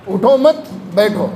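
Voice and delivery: "اٹھو مت" as one command, pause, then a falling بیٹھو; pause after مت. Shown as a demonstration. Preacher repeats the don't-get-up reading, pausing after مت. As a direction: hold a gap between مت and بیٹھو. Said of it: "یعنی جاؤ مت، بیٹھ جاؤ".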